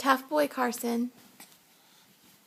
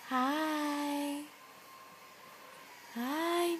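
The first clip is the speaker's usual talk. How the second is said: put-on talking to a baby; 4 semitones higher than usual. Mother greets infant repeatedly.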